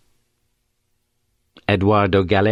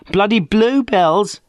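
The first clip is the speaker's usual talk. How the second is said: scornful, higher and slower, "bluebells" stretched; snorted derision; 11 semitones higher, slower than usual. A narrator's reading. Friday Banks mocks Morse's question, snorting with derision. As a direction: scoff at the bluebells with contempt. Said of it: "She snorted her derision".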